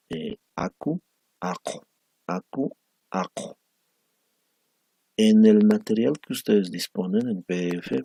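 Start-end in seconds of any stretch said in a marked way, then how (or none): 0.1-3.6 aku with u, ako with o, each vowel clearly shaped; minimal pair demo. Shown as a demonstration. Teacher showing students a minimal pair, carefully articulated. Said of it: "las palabras".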